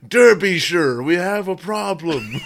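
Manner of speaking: high, slow, put-on English accent, laughing through it; hammed-up English accent, drawn out; mock northern English accent, laughing. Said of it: "It'd be like".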